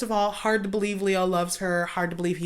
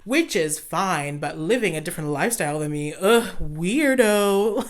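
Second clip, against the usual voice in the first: snooty disdain. Retold or imitated. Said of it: "they're just like".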